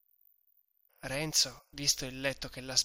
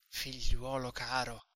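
a touch of gentle coaxing; gentile. Acted. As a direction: soften it, win him over kindly. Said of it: "con una voce e con un fare tutto gentile". (tono gentile e accomodante)

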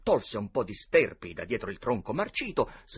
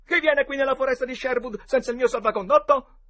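Robin Hood recitato; 9 dB louder than usual. Acted. Boy playing Robin Hood.

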